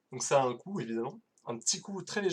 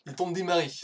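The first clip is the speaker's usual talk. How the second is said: louder, higher relaunch of "il est temps de démarrer"; energetic restart; 4 semitones higher, 5 dB louder, much faster than usual. Shown as a demonstration. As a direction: kick off the talk again with fresh energy. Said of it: "je recommence".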